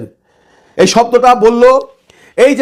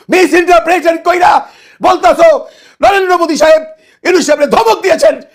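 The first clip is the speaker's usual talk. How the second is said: scornful words through laughter; mocking laugh; 3 semitones higher than usual. Real, not acted. Host laughing scornfully at journalist's false claim. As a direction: laugh off his claim as absurd.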